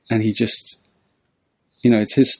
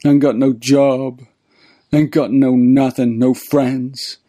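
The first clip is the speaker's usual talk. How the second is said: tramp lamenting. Retold or imitated. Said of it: "And the old tramp goes".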